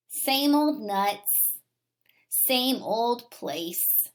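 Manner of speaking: slow bored whisper; slow whispered boredom; weary whisper. Acted. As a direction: let it fade into a tired whisper.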